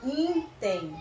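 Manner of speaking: "Intem" drawn out in two syllables, in-tem; sounded out. Shown as a demonstration. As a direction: sound out "Intem" slowly for pupils. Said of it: "Vamos colocar esse in aqui".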